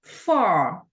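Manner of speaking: Far with a long held ah; Far, vowel drawn out. Shown as a demonstration. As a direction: stretch the ah in Far. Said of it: "pronunciar así más extendida la vocal".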